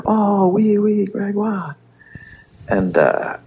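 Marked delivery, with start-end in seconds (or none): 0.1-1.8 much higher mock French voice; French parents. Retelling the parents recognising the name, high mock French. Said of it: "And they were like".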